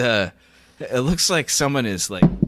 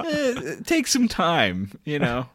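high-pitched caller voice; 6 semitones higher, slower than usual. Acted. Same caller voice continued.

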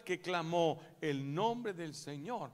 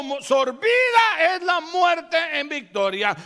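slow, loud, much higher victory cry; triumphant shout; 13 semitones higher, 17 dB louder, slower than usual. Acted. Risen Jesus declares victory over death, triumphant shout. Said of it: "se levantó y dijo".

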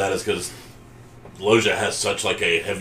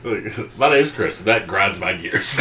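drawn-out, very slow comic delivery; slow mock voice; 3 dB louder, much slower than usual. Joking to friends in a slow, drawn-out mock voice. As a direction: stretch every word for the gag.

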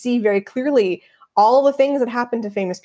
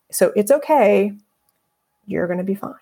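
reassuring. Retold or imitated. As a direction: ease them down gently. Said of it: "one thing that I could say to myself".

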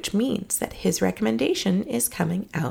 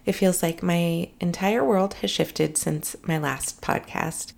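slow, tired, worn-out voice; weary and drained, barely holding up; exhausted. Real, not acted. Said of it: "If I sound exhausted".

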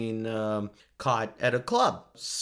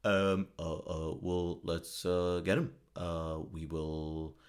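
halting, hesitant mock statesman with lots of ums; badly faked presidential drawl, lower and softer; Obama; 5 semitones lower, 4 dB quieter, slower than usual. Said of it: "Oh, God, I can't do Obama".

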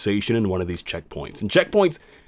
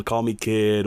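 plain reading voice

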